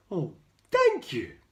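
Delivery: grateful giraffe. A narrator's reading. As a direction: thank him brightly as the giraffe. Giraffe thanks George.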